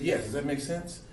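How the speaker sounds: Bill Cosby. Retold or imitated. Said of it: "he said".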